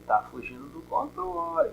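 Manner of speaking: hushed, confiding aside; leaning in to whisper. Real, not acted. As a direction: drop the voice as if sharing a secret. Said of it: "vou falar baixinho aqui".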